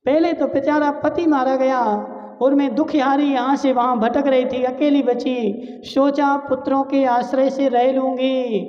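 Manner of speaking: lightly voiced grieving mother; mother's lament. Widowed mother bewailing her departed sons, mildly acted lament. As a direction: plead like a bereaved mother, tears only suggested. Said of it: "रोते रोते क्या बोल रही है".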